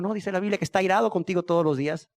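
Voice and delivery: ordinary delivery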